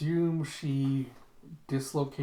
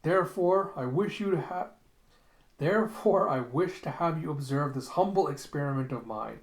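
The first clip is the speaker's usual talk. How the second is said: lightly raised oratorical delivery; grand speech. Retold or imitated. Retelling a scientist presenting his experiment, mildly grandiose.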